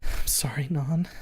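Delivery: whispered, tearful apology; soft sob. Acted. Fang apologises over the phone, whispering through soft sobs. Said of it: "she sobs softly".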